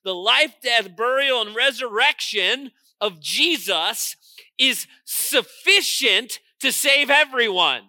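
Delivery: forceful sermon delivery; emphatic preaching. Real, not acted.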